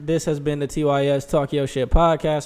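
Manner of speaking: infomercial announcer voice; over eager infomercial. Pretend. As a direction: OxyClean ad pitch voice. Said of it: "See how his voice changed?".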